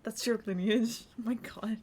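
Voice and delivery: Shiloh the escaped sailor, quiet and reflective; in-character sailor telling his story. Acted. Roleplay character quietly telling other players his backstory, subdued. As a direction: softly recount the escape, a touch wistful.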